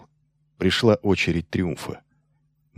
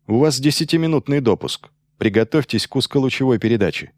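lightly voiced pilot on comms; pilot over the radio; 4 semitones higher than usual. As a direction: read it like a radio call. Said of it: "прозвучал голос пилота над панелью".

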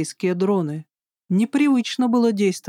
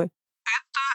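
robot voice; 3 semitones higher, 5 dB quieter than usual. Acted. Robot guard refuses again.

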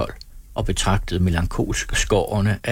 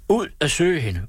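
higher, eager cry; eager exclamation; 7 semitones higher than usual. A narrator's reading. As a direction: burst out with it. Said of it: "udbrød alle".

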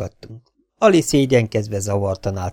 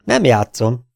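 1 serious; 3 semitones higher, 6 dB louder, slower than usual. A narrator's reading. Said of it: "mondta komolyan Ali".

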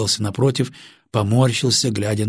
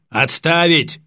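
sharp command; 6 semitones higher, 3 dB louder, slower than usual. Acted. Officer orders from the door.

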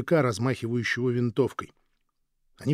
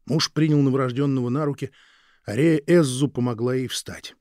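ordinary delivery

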